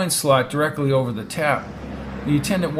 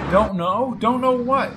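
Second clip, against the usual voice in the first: higher-pitched, impatient questioning; 9 semitones higher, slower than usual. Acted. Brady demanding news from Peg, impatient. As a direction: throw the question back impatiently. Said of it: "asked Brady impatiently".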